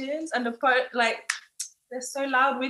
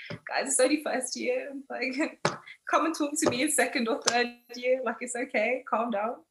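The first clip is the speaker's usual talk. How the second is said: tag; 5 dB quieter than usual. Retold or imitated. Calming over-competitive classmates in retold quote.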